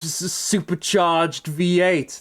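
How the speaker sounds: lightly put-on woman's voice, drawn out at the end; mock dramatic reveal; mocking the actress. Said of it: "she's gonna be like".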